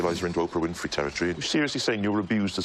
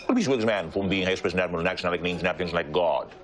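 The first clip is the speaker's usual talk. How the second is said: lightly voiced Welsh stage actor; a hint of declaiming actor; Richard Burton. Friend showing off his impressions, lightly voiced actor. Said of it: "Richard Burton".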